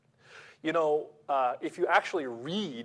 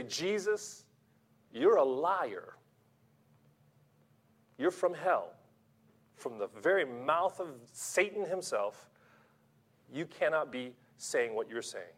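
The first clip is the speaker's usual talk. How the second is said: accusing; 2 semitones lower, 4 dB quieter than usual. Pretend. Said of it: "Or you say".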